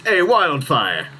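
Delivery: slow, drawn-out birdlike mimicry; a kenku voicing its own name. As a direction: stretch it like a bird repeating a sound. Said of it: "he hears".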